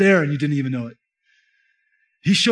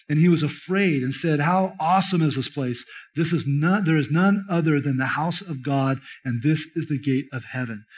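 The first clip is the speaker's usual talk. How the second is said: measured, slightly lower reading of scripture; 3 semitones lower than usual. Acted. Preacher reading Genesis to congregation, measured and reverent. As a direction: read the passage aloud with reverence. Reads Genesis passage aloud.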